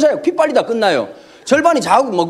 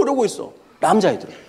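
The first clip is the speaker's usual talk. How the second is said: normal talking voice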